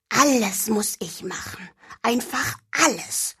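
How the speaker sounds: soft, high-pitched muttering; grumbling mutter. Acted. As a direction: mutter it under your breath. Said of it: "murmelte sie". (leises Gemurmel)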